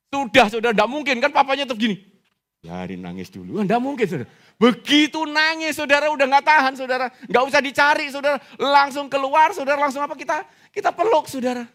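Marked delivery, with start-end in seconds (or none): 0.1-2.0 high, loud, insistent preacher; fervent preaching. Real, not acted. Preacher tells congregation of a father's response, fervent. 3.6-11.6 high, loud, urgent sermon delivery; full-force preaching. Real, not acted. Preacher tells of father rushing to crying child, full-force.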